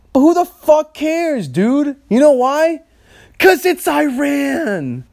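real high-pitched indignant rant; fired up, stretching the key words in outrage. Real, not acted. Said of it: "That had me fired up this morning".

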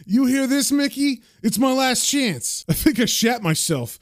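high-pitched jeering through laughs; hammed-up thug's derisive cackling; mocking laughter. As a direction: laugh in the face of an empty threat. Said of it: "Sam just laughs at her saying".

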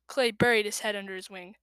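plain reading voice

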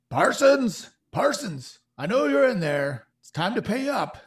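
loud, high shout through the door; thug shouting. Acted. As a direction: bellow his name to shake him out. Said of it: "you hear a man shouting".

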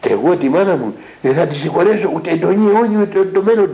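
bitter defiance, pitched high; son's grudge against his mother, indignant; retold angry refusal. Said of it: "Με ένα μένος".

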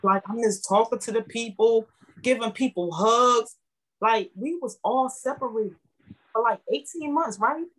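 fighting back tears while saying she misses everyone; emotional. Real, not acted. Member telling hosts she misses her TLC family, emotional. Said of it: "I'm sorry I'm getting emotional".

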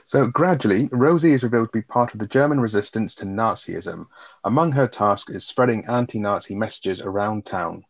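measured plot-summary read; reading a synopsis aloud. Real, not acted. Co-host reading the plot to listeners, measured read-aloud. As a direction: read it out like a written film recap.

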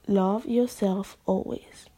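slow, sincere restatement; slow sincere repeat. Shown as a demonstration. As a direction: let it land slowly and sincerely. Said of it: "no, love yourself always".

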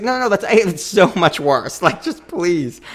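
high, laughing, frantic begging; frantic pleading. Retold or imitated. Friends keep hinting at Italy, so she begs them, laughing, to stop. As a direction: beg them to stop talking, half laughing. Retelling own panicked pleading.

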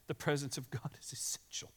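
hushed, unvoiced whisper. Shown as a demonstration. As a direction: breathe it as a secret. Whispered right after plain line.

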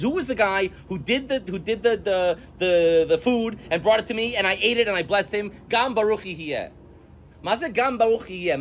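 a father realizing he's been fooled, rattled; freaking out. Retold or imitated. Teacher voices frantic Yitzchak, high and panicked. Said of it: "Yitzchak freaks out and says".

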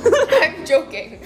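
slow laughing admission. Real, not acted. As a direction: laugh while you say it. Laughing after joke.

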